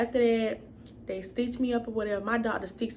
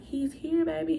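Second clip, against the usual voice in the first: higher-pitched retold good news; excited announcement; 6 semitones higher than usual. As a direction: imitate a partner sharing joyful news. Boyfriend announces baby to mother.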